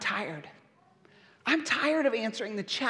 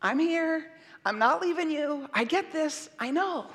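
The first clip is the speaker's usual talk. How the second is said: put-on comforting a baby; 3 dB quieter than usual. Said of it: "is this sense of".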